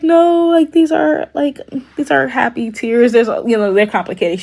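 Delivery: pleading that the tears are happy ones; tearful girlfriend. Retold or imitated. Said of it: "she's like".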